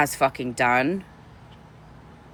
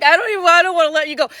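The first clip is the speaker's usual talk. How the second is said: clingy goodbye; 8 dB louder, much faster than usual. Retold or imitated. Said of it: "I was like".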